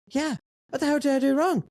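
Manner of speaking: high, incredulous comeback; retold indignant protest. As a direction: re-enact disbelief with pitch shooting up. Retold protest at being suspended.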